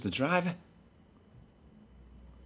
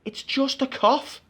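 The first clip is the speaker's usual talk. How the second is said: slow repeat; 6 semitones higher, slower than usual. Retold or imitated. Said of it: "And then I said it again".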